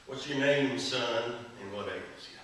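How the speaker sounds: put-on southern accent. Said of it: "who had a southern, southern accent".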